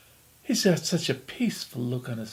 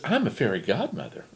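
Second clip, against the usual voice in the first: fairy godmother voice. Acted. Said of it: "in his best fairy godmother voice".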